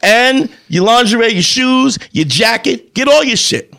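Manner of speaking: acting out throwing someone out, item by item; angry eviction. Acted breakup, listing her things.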